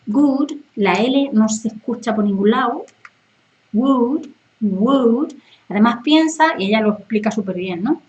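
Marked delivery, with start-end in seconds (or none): 0.1-0.5 would said like good without the L; would sounding like good. Shown as a demonstration. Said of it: "sería algo así como". 3.7-5.3 would with no L, just air; blown would. Shown as a demonstration. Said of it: "estás como soplando".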